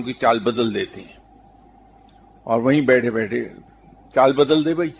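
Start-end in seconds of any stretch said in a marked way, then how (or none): 4.1-4.9 raised, higher commanding call of چال بدل دے بھائی; commanding the stars. Retold or imitated. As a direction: order the stars to change course, voice lifted. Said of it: "آسمان کو دیکھ کے انگلی سے اشارہ کیا".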